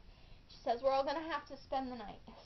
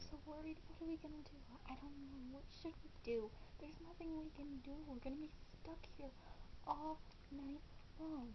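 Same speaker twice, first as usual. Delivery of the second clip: mocking; 15 dB quieter, faster than usual. Mocking the worried friends.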